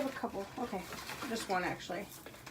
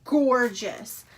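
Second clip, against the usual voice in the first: overjoyed; 11 dB louder than usual. Real, not acted. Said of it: "I'm literally gonna cry".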